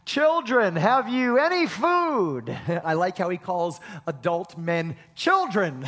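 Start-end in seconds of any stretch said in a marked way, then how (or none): 0.0-2.5 louder call across water, slow; Jesus hailing the fishermen, loud and slow. Acted. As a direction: call out to the boat from the shore. Figure calls from the shore.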